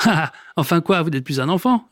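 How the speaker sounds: mocking snicker into the words; sneering laugh. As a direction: scoff at the old man while laughing. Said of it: "ricane le voisin du milieu".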